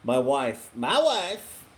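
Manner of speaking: a hint of the cartoon dad from Texas; Hank Hill impression. For the chat, a light take on Hank Hill. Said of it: "My name's Hank Hill".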